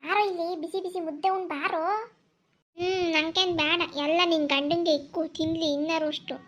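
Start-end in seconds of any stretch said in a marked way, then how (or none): 2.8-6.3 put-on sulking child. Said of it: "ಮುಸುಡಿ ಯಾಕೆ ಹತ್ತಿರಿಸ್ಕೊಂಡಿದ್ಯಾ?".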